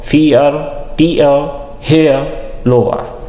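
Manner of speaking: teacher models the two-sound vowel for students; diphthong demo. Shown as a demonstration. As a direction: model फियर, टीयर, हेयर, लोअर with a clear two-part vowel glide. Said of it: "ये दो sounds देगा".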